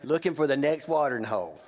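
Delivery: very slow, drawn-out resignation; lightly mocking a fed-up man; mock weary vow. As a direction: spell out each word like a tired quitter. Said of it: "You know what most of you have done?".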